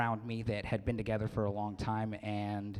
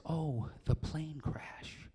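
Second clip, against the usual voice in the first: put-on old lady; 4 semitones higher, 5 dB quieter, much slower than usual. Old lady voiced in story.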